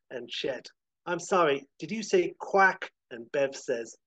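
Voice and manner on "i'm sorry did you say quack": incredulous. Acted. Villain incredulous.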